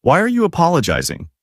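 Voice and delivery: high-pitched, understated whine; whining. A narrator's reading. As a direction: whine it lightly, pitch lifted. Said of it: "She whined".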